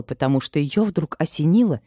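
ordinary delivery

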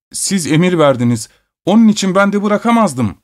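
tiz sesle yakınan uşak; sızlanan yaşlı uşak. A narrator's reading. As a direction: efendisine şikâyet eden telaşlı hizmetkâr. Servant complains to master. (uşak efendisine sitem ederek, tiz yakınma)

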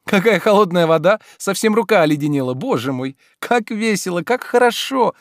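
high, loud joyful exclamation; delighted. A narrator's reading. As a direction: gush with delight at the cold water. Olga delighted. (восторженно, звонко)

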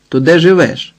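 plain reading voice

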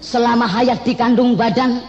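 grand patriotic declamation; hammy stage actor. Acted. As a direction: recite it like a stage poem. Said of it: "kamu ini deklamasi apa merayu".

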